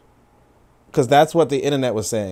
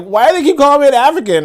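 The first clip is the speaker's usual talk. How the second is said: much higher, whining put-upon voice; mock whiny complaint; 11 semitones higher, 4 dB louder, faster than usual. Streamer imitating the complainer, much higher and whiny. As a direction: whine it like a wounded complainer. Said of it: "And it's like".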